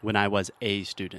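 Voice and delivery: 'a' said as a full 'ay' before student; stress on A. Shown as a demonstration. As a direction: point up the article 'a', pronounced like the letter A. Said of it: "we always include the article a or an".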